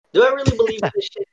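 emphatic repeat. Real, not acted. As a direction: fire the question back with emphasis. Repeats the question louder.

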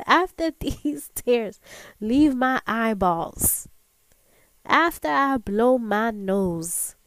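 loud, deliberate comeback; talking back. Acted. Woman answering her inner critic about crying, loud and slow. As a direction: stretch out each phrase with mock-solemn force. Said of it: "talk back to my inner voice".

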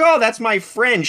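high, slow imitation of mom. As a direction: play mom dismissing it, high and drawn out. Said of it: "And she's like".

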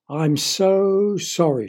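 slow, mild mock sob; sobbing. Emma apologizing to the neighbours, slow mock sob. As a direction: plead through mock tears. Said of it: "she sobbed".

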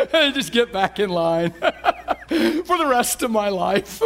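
slow, giggling delivery; can't stop laughing while talking; laughing through words. Real, not acted. Pastor delighting the congregation, laughing through it. Laughing about life's joy.

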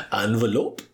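imitating a disdainful French professor; mock-disdainful French pronunciation, rising at the end; French-accented disdain. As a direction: quote the wife's scornful French answer. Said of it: "That disdain".

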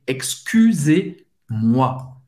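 Excusez-moi slow, ending zez on an open E. Shown as a demonstration. Teacher models the open E of Excusez-moi slowly. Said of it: "E Z tem um som do E aberto".

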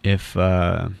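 drowsy, sedated speech. Real, not acted. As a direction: talk like you're on painkillers. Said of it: "if I sound a little sedated".

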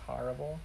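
"horrible" said as "harrible"; childhood New York pronunciation. Shown as a demonstration. Demonstrating parents' New York influence, "horrible" as "harrible". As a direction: open ah in the first syllable of "horrible". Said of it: "the only thing I said weird was".

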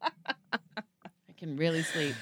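drawn-out, very slow and drowsy; sleepy hotel guest, very slow. Pretend. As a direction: drift off as you say it.

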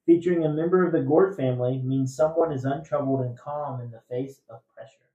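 loud, measured trivia question read; quiz host reading. Acted. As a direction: read the clue out to the room.

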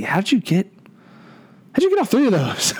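high, astonished question; amazed. Real, not acted. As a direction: ask in real disbelief. Amazed at the roster.

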